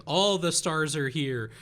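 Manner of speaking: lightly voiced deadpan comic announcement; Norm Macdonald. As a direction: toss it out like a bored host. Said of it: "would interrupt people going".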